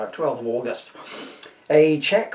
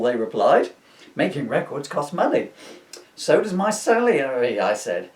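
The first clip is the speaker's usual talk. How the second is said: lightly posh English producer voice; a hint of a posh British accent, understated; George Martin posh voice. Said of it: "me trying to do a George Martin posh voice".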